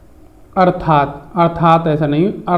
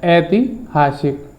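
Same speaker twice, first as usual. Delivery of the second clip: slow careful word; much slower than usual. Shown as a demonstration. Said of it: "ऐतिहासिक होता है".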